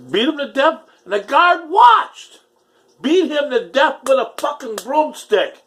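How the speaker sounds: worked up, nearly shouting; agitated, high-pitched. Real, not acted. Reliving jail terror, pitch way up.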